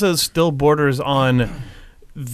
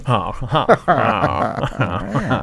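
sleepy gasping huh; much slower than usual. Retold or imitated. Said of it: "it'll go".

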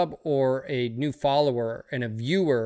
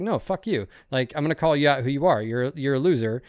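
retold anger, not at full force; retold telling-off. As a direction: snap back at the troll, half in jest. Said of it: "I was like".

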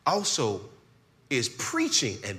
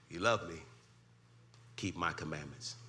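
normal talking voice

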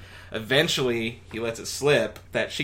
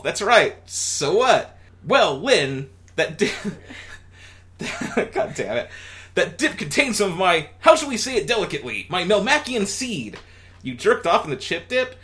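higher, louder comic alien; Alf voice; 7 semitones higher, 4 dB louder than usual. Acted. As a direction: play Alf explaining himself.

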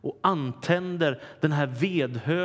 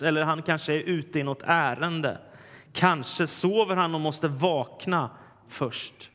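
mocking taunt; 3 semitones higher than usual. Elijah taunting the prophets of Baal, mocking and higher. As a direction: tease them that their god is asleep.

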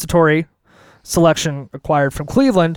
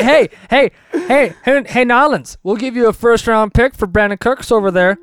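mock sly dealmaker; 5 semitones higher than usual. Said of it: "They're like".

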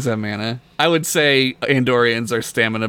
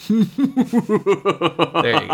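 mad scientist; much slower than usual. Acted. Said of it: "That was better".

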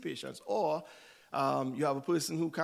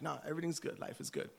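breezy brush-off; 7 dB quieter, faster than usual. Retold or imitated. Brave-face lie acted out.

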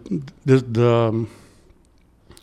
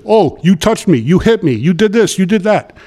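whiny boss; 6 semitones higher than usual. Retold or imitated. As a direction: boss mimicked as he cries foul to the narrator. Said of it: "And he says".

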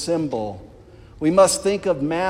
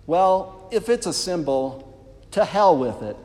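trembling, nervous voice; words shaking with nerves; shaky voice; 4 semitones higher, 4 dB louder than usual. Retold or imitated. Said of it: "in a very shaky voice".

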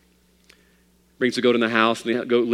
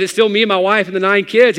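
loud, much higher, bursting with joy; excited; 9 semitones higher, 8 dB louder than usual. Acted. Father of nine to his preacher, overjoyed. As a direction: gush it out, delighted. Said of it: "so excited, so happy".

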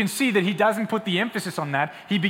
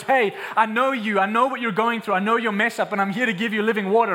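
higher, emphatic, urgent reassurance; impassioned God; 5 semitones higher, 4 dB louder than usual. Acted. Preacher as God reaching out to messed-up people, impassioned. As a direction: press the offer home with conviction. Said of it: "when God goes".

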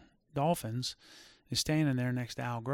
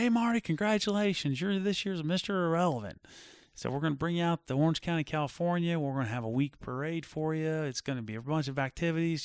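higher, cheery imitation of the caller; upbeat announcer congratulations; 5 semitones higher than usual. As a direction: play the hyped-up event host delivering good news. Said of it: "So Paul calls me and says".

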